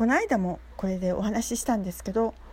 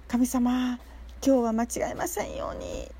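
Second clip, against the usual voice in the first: retold prayer. Praying to God before going to work, in a lightly acted prayer. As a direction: say it as a short plea to God. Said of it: "いつもお祈りをして".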